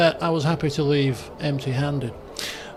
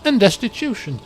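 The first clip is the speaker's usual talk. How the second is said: story narration. A narrator's reading. Narrator telling the party about the dancing Aelfwine, measured. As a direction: paint the scene for the listeners.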